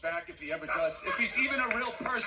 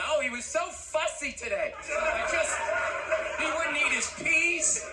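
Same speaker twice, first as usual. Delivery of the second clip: mocking a tired mom; 5 semitones higher than usual. Mocking a complaining mother.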